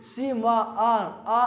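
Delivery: सी म आ drawn out slowly, sound by sound; खींचकर उच्चारण. Shown as a demonstration. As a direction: stretch सी and let the final आ ring long. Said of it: "आपको इसमें उच्चारण करना होगा". (सी म आ को धीरे-धीरे, आ खींचकर बोलना)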